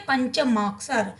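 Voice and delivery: पंचमाक्षर said slowly, syllable by syllable; teacher drawing out पंचमाक्षर; slow clear demo. Shown as a demonstration. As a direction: spell out पंचमाक्षर slowly for the class. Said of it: "उनको क्या बोलेंगे?".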